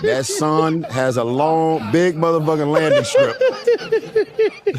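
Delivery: laughing. Real, not acted. Roasting Shannon's nose, laughing.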